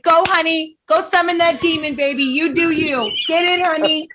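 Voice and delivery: put-on high-pitched soccer mom cheering on her child. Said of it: "weird, like, soccer moms".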